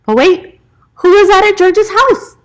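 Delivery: high and loud building question; excited reveal. Real, not acted. Narrator revealing a visitor at George's house, excited. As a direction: build the surprise up.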